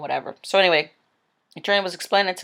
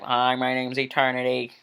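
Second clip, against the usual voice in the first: put-on mild, half-hearted Australian-British accent, a bit lower, no emotion; a badly faked British-Australian accent, deadpan and bored; attempted Australian-British accent; 5 semitones lower than usual. Eternity greeting the next man in a weak Australian-British accent. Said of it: "I can't do accents".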